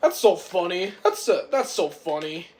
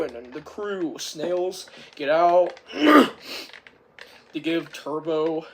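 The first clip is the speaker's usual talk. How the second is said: normal talking voice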